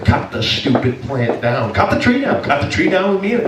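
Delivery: silly put-on voice. Mock voice calling him to cut.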